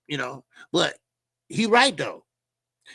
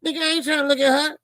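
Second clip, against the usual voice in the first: exasperated protest; 8 semitones higher than usual. Retold or imitated. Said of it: "I'm like".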